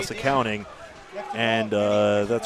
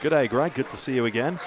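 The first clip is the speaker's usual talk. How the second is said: a light, badly faked Australian accent; barely-there Aussie twang on Good day, Greg. Greeting Greg in a barely-there, badly faked Australian accent. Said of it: "a shocking Australian accent".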